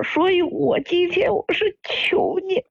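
tearful, earnest begging; pleading. Real, not acted. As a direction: beg for help, close to tears. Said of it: "我是求你了". (带着哭腔苦苦哀求)

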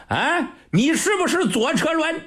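laughing mockery. Old general mocks the marshal, asking again with a high laugh. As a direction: toss it back with a mocking laugh. Mocking repeat of the question.

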